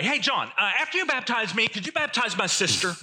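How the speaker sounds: a bit dim, cheerfully missing the point; clueless bystander. Retold or imitated.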